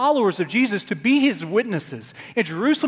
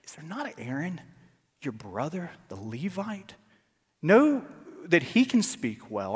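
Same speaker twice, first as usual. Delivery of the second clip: hushed, low stern words; quiet, firm rebuke; reading God's answer, low and hushed; a hint of stern God; 5 semitones lower, 6 dB quieter than usual. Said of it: "the anger of the Lord was kindled".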